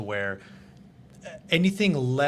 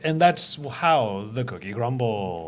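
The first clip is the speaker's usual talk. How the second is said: newscaster voice. Retold or imitated. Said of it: "like, the newscaster voice, where you're like".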